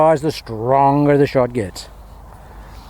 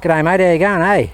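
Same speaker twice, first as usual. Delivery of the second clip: lightly put-on Northern Queensland accent, higher; a hint of imitated Northern Queensland Aussie; 4 semitones higher than usual. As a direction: mimic a Northern Queenslander with a tacked-on "eh". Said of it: "That's the Northern Queenslanders".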